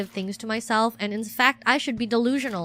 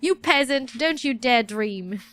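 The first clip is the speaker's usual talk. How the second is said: scornful inner critic; slower than usual. Retold or imitated. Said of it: "I was like".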